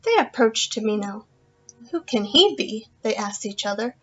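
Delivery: lively storytelling voice for a class; story narration. Acted. Teacher reading The Magic Flute story to her class, lively narration. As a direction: paint the fairy tale for the children.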